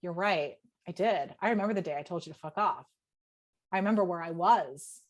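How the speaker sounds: subdued, low-voiced retold confession; retold admission. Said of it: "also at the same time going".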